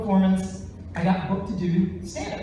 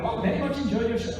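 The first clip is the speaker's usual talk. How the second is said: imitating Apu; 2 semitones higher, faster than usual. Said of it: "I'm gonna hear Apu from The Simpsons".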